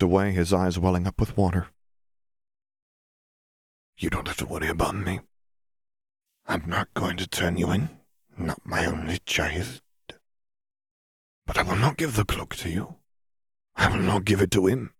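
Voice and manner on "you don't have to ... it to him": sighing sadness. A narrator's reading. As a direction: let each word weigh with grief. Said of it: "he sighed".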